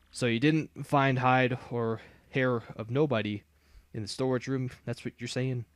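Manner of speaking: lightly voiced Southern redneck, slow; a hint of a folksy Southern boss; easygoing Southern redneck twang; redneck drawl. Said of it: "I know how to talk like a redneck now".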